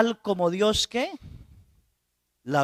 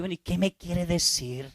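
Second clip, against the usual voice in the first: impatient priest. Retold or imitated. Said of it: "Y uno dice".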